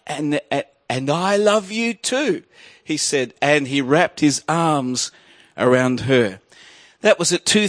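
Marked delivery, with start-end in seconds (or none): 0.1-2.4 a boy's gentle stammer, lightly voiced; stuttered reply. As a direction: stammer it out softly and slowly. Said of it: "he stuttered and he said".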